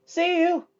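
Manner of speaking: high, loud shouted farewell. A narrator's reading. Michael shouting goodbye while jumping out, shouted. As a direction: fling it back as you leap out. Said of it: "he shouted".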